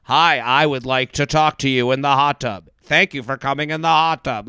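flat robotic monotone, imitating Ariel; deadpan robot voice, mimicking a contestant. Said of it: "the same monotone robot voice as Zach".

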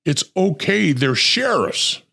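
light imitation of a reassuring cop; half-voiced reassurance; imitating the partner. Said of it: "His partner says".

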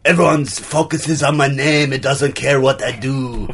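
lightly put-on French-Austrian accent; affected accent. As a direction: artist with a muddled European accent. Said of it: "affect an accent".

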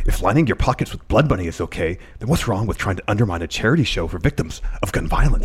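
lightly voiced wrestler impression; Kenny Omega. Host reading a wrestler's tweet, lightly in character. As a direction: read it out as a mild impersonation. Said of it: "You do the, the best Kenny Omega".

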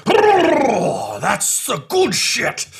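very high, loud, slow stoned cry of delight; Two Two Cups high. Acted. Boss after snorting spice, high loud slow delight. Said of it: "and goes".

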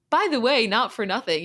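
ordinary delivery

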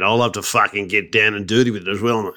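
rough-mannered mock ocker Aussie; broad Australian accent. Matey agreement in character, broad Australian accent. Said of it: "What's your go-to Australian accent?".

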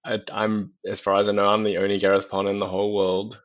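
ordinary delivery

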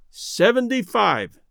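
calm. Acted. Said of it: "added Fuller imperturbably".

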